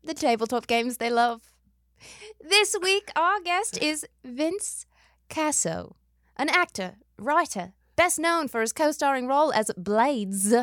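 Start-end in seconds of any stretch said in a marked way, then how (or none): 2.4-10.6 put-on a mixed British-Australian accent, half-slipping; mock Australian accent. Host introduces her guest in a wobbly mock Australian accent. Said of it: "I am British Australian".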